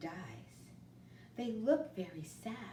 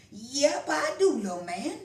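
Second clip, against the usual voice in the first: louder, folksy grandpa teaching his grandson; kindly grandpa; 9 semitones higher, 8 dB louder than usual. Acted. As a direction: explain it like a loving old grandfather. Grandpa voiced in story.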